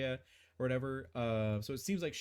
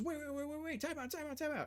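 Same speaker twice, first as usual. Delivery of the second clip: very high spectral banshee voice; 4 dB quieter than usual. Voicing the banshee as she is struck and begs for time out: voicing a banshee. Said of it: "But she goes".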